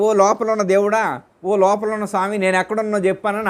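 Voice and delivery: teacher voicing a seeker who begs the god within, pleading; mock pleading prayer. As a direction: call out to the god inside as a seeker begging. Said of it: "అడుగుతున్నాడు".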